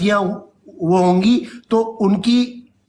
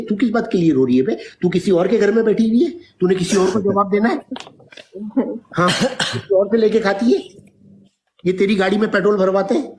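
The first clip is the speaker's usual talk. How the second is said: scolding; 3 semitones higher, faster than usual. Real, not acted. Scolding crying daughter.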